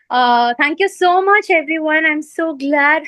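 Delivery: breathless, rushing from the train; gasping between phrases; out of breath. Real, not acted. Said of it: "going out of breath".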